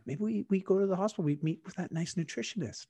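lightly imitated parents, tentative suggestion; gentle coaxing parents. Parents suggesting a nutritionist to their child, gentle coaxing.

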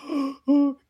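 small scared gasps, acted; imitated gasp. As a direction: gasp like a kid in trouble. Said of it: "They're all like this".

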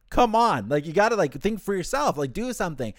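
exasperated plea, starting high and loud; mock-frustrated urging that eases off. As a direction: imitate someone losing patience. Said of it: "Hisagi kinda gets frustrated".

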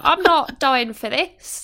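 reluctant soldier. Retold or imitated. Extras before the freedom speech: slow whiny refusal. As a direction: drag it out like a soldier refusing to fight. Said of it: "two lads who are like".

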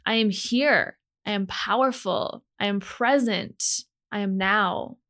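each line set down with a falling end. Acted. Podcast host reciting affirmations to her listeners, steady and sure. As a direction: speak it like a mantra, steady and sure.

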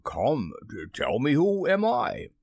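wheedle, voice lifting at the end; almost humble request; ingratiating. A narrator's reading. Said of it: "Hook tried a more ingratiating manner".

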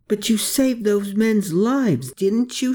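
put-on high, slow girl's voice asking gently. A narrator's reading. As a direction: coax him with the question. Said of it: "she uttered".

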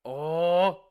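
excited. Real, not acted. Thrilled by the revenge scene.

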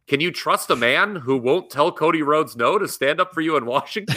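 ominous political ad narrator, laughing through it; attack ad voice. Retold or imitated. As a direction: read it like a smear campaign spot. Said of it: "Attack ad voice".

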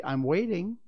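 put-on high, loud child's prompt; child coolly demanding action; cold. A narrator's reading. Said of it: "said Michael coldly".

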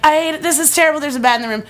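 mock distress, settling toward the end; retold panicked complaint. Complaining to mom about the bat, mock distress.

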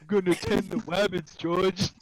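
hopeful simple giant; Lenny voice. Retold or imitated. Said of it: "like Lenny from".

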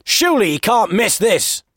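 high, excited exclamation at the match; excited football fan. Acted. Man watching the match turns to a stranger, excited. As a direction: pitch it up like a tense fan. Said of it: "louder and more excited".

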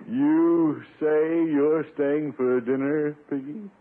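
slow, loaded, drawn-out question; pointed question. Acted. Uncle pointedly questions the boy who tackled him. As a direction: let every word hang pointedly.

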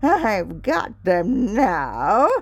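slow, malicious gloating witch; jeering witch. Acted. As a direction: drag out the gloat over the trapped children. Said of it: "she laughed maliciously and said jeeringly".

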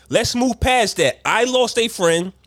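lightly voiced peacemaker offering a truce; playing a rapper making peace. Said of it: "you giggled after you said the shit".

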